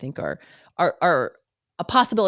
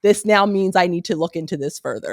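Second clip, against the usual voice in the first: higher, louder playful mock of his certainty; teasing partner; 3 semitones higher, 4 dB louder than usual. Partner ribbing him about certainty, higher and louder teasing. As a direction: needle him for being so sure. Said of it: "And she's like".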